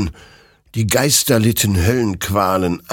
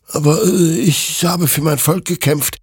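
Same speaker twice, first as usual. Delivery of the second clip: justifying himself; 10 semitones higher, 4 dB louder than usual. A narrator's reading. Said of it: "rechtfertigte sich Hector".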